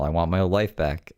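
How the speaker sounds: flat, dismissive echo of the plea; a deadpan parody of her demand; mocking the quote. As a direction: say it back as a tired cliché. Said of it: "lots of people say this".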